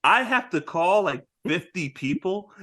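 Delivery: a hammed-up fed-up boss lecturing; exasperated captain. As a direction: explain police work to idiots, fed up. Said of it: "He's like".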